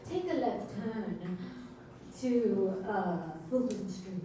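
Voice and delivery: slow, lightly British GPS voice; English accent. Acted. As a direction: give slow directions in a mild British accent. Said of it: "say that in an English accent".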